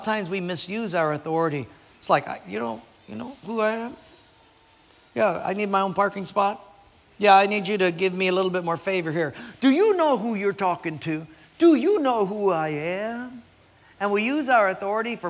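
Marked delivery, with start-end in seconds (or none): 2.0-6.6 a puffed-up mock boast, higher; mock self-important. Preacher mocking a leader who flaunts his rank, puffed up. 9.6-13.4 mock arrogant. Mocking misuse of authority.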